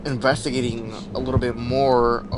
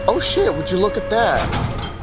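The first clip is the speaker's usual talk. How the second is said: high, startled retelling of his shock; surprised exclamation; 8 semitones higher, 4 dB louder than usual. Retold or imitated. Retelling the guy's reaction, high and startled. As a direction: act out the guy's amazed outburst. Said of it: "he was like".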